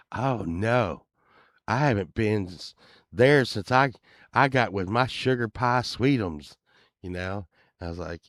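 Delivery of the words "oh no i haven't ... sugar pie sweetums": lightly voiced henpecked husband; a hint of the sweet-on-his-wife neighbor; old neighbor's voice. Neighbor confessing to the band about topless bars, lightly voiced. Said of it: "he talked like this".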